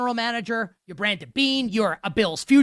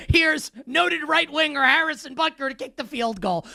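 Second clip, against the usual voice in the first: hammed-up stadium announcer call, a bit raised; mock PA announcer; 4 semitones higher than usual. Host mocks the kicker intro as a stadium announcer. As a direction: boom it out like the stadium PA.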